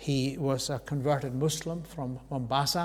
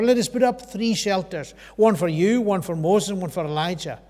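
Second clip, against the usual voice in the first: excited blurting; 2 semitones higher, 5 dB louder than usual. Retold or imitated. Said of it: "so excited".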